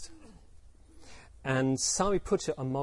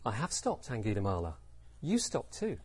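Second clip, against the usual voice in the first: soft, unhurried answer; calm reply; 4 semitones lower, 5 dB quieter than usual. Acted. Buddha turns to Angulimala, calm reply. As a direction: answer the shout quietly and evenly.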